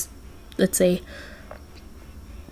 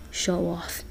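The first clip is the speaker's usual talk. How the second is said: sighed; 11 dB quieter than usual. A narrator's reading. Jack to Santa after his entrance, sighed. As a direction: say it softly under the breath. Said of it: "Jack sighed, like".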